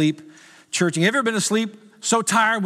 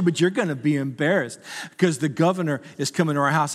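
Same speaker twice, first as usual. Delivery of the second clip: mock angry wife; 2 semitones lower, faster than usual. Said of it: "She's getting angry with me".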